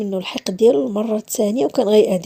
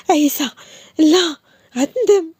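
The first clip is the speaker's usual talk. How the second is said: high, louder desperate plea; frightened plea; 6 semitones higher, 4 dB louder, slower than usual. Acted. Woman pleading with Issa as he approaches, afraid. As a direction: beg him to stop, afraid.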